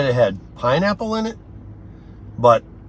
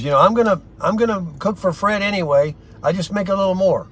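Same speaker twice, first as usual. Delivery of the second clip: light Italian accent, a touch higher, imitating Raffaella; 7 semitones higher than usual. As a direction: mimic a warm Italian lady's accent lightly. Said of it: "she got that Italian accent".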